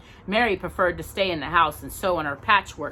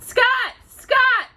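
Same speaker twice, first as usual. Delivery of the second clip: high, loud alarmed yell; shout; 7 dB louder than usual. A narrator's reading. Pa shouts down the well for Scott, high alarmed yell. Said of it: "he shouted".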